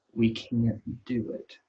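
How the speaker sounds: a spy losing his nerve, slow and afraid; slow, fearful. Retold or imitated. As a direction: let the fear slow you down. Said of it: "And they were afraid".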